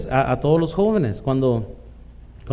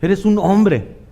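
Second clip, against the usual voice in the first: slow, higher, drawn-out mock lament; wife's mocking sigh; 4 semitones higher, 4 dB louder, much slower than usual. Preacher imitating his wife scolding his clumsy dishwashing, slow and high. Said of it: "me decía mi esposa".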